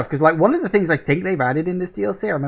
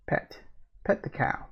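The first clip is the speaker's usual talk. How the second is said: whispered; 10 dB quieter than usual. Real, not acted. Whispering to the game cow.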